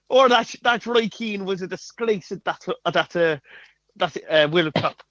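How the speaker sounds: the same light Irish lilt, repeated; Irish Mick McCarthy. Retold or imitated. Asked to repeat the impression, a light Irish voice. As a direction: do the Irish manager again, lightly. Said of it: "Do it again".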